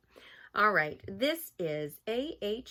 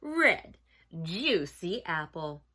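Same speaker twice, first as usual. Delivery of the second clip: put-on animated storybook reading for children; story narration; 5 dB louder than usual. A narrator's reading. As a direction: read it aloud to children, savoring key words.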